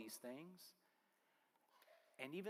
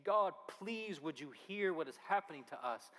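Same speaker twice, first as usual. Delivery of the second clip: desperate prayer; 2 semitones higher than usual. Acted. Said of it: "He is desperate".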